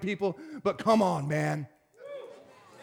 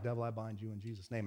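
much softer, whispered retold prayer; 12 semitones lower, 17 dB quieter, faster than usual. Preacher retelling binding a devil near a handcuffed woman, whispering. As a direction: breathe it under your breath. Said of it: "And I'm whispering it".

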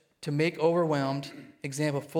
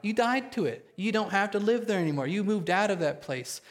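higher, fervent preaching push; rising fervour; 5 semitones higher than usual. Acted. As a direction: lift the pitch to stir the room.

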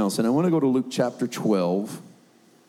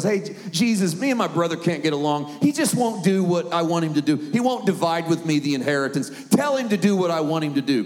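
higher-pitched mock grumbling; imitated whiny complaint; 4 semitones higher than usual. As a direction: play the man griping about his brother. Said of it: "it kinda sounds a little whiny to me".

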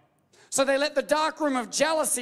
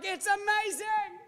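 covetous admirer; 6 semitones higher than usual. Retold or imitated. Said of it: "and be like".

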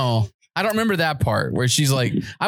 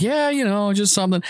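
high, offhand retold reply; mock modesty; 6 semitones higher than usual. Driver shrugging off the officer's praise, mock-modest and high. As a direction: imitate a driver brushing off praise.

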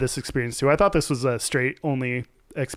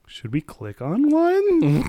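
sheepish hopeful ask; 9 semitones higher, slower than usual. Retold or imitated. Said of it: "I was like".

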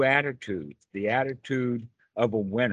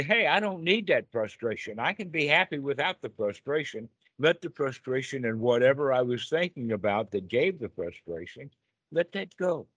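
cheerful self-talk; 3 semitones higher than usual. Retold or imitated. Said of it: "then I can say".

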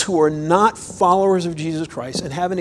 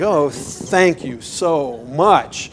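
grateful parent thanks; much slower than usual. Retold or imitated. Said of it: "and I'm like".

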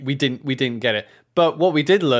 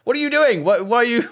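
much higher, louder mimicked demand; imitating an indignant orc; mock orc scolding; 11 semitones higher, 5 dB louder than usual. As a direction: challenge them in exasperation. First orc returns, demands explanation.

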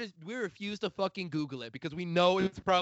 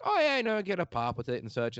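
put-on Midwestern accent; 3 semitones higher than usual. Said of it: "my Midwestern accent came out real hardcore".

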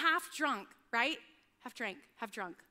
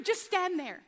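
louder, laughing at herself; mock-strict mother at her cleanest; bossy mum order; 5 semitones higher, 4 dB louder than usual. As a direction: order them to freeze in place.

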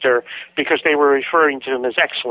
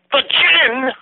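retold yell; 12 semitones higher than usual. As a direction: belt it out in disbelief. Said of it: "he yells at the top of his voice".

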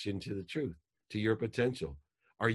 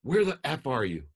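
high, loud furious yell; angry yelling dad; 7 semitones higher, 6 dB louder than usual. Retold or imitated. Dad yells at his missing daughter, high and loud. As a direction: bark it at her like a furious father. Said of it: "in the consciousness that most people live".

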